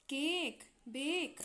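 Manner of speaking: "केक, बेक" with long, held vowels; long vowel demo. Shown as a demonstration. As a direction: stretch the ए in "केक, बेक" for learners. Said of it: "ये हमारा ज़्यादा time लग रहा है".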